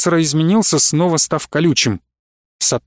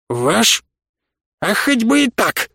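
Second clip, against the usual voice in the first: higher-pitched, challenging retort; defiant; 5 semitones higher, slower than usual. A narrator's reading. Professor retorting to the colonel's pressing question, defiant. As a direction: fling the admission back.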